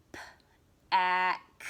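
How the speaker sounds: P-ack whispered with the p pulled apart from ack; whispered stretched word. Shown as a demonstration. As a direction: breathe out P, then ack. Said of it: "stretching out the word".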